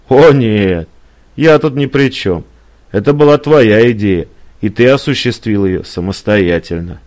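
mildly angry quarrel voice; heated denial. Acted. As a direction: push the blame back firmly. Woman denies involvement, quarrel exchange.

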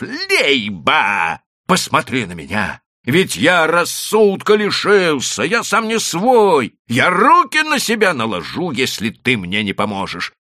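shouting in despair at Leiba; desperate shout. A narrator's reading. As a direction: beg as if losing his mind. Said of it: "закричал вдруг Чертопханов".

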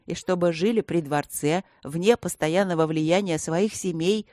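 plain reading voice

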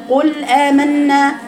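قل آمنا slowly with no ghunna and no long vowel; student's flat reading. Shown as a demonstration. Teacher mimics a student skipping ghunna and madd. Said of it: "لا جبت غنة ولا جبت مد".

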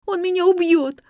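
high, loud desperate wail; wailing in terror. A narrator's reading. Nelli clinging to the narrator's knees, terrified wailing. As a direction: beg them not to leave, howling. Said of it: "повторяла она".

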